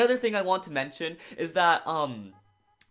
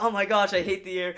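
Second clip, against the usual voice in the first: irritated; 4 semitones higher than usual. Retold or imitated. Aiga irritated by the gust, mildly annoyed. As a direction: grumble like the wind is a personal insult. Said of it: "really irritated by the air".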